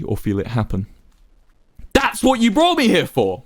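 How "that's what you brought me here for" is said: shakily. A narrator's reading. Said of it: "Wilbur replied shakily".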